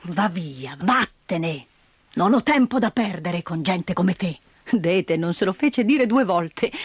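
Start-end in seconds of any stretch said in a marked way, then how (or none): 0.1-4.4 put-on lower, mild furious old man. Old man drives Dete away, understated anger. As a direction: send her off gruffly. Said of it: "Il vecchio era furioso".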